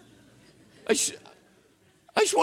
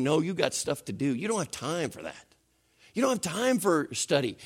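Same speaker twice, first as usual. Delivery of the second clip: enemy whispering; 3 dB quieter than usual. Retold or imitated. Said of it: "the enemy's whispering".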